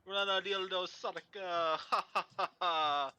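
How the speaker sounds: playful retold laugh and chant; imitated laughing announcer. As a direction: ham up a laughing guy on a choppy mic. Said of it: "I heard you specifically laughing at Luke".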